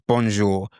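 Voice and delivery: bonjour in a British accent; English-accented French. Shown as a demonstration. Teacher contrasting with the French take, English-accented French. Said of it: "So the bonjour is English".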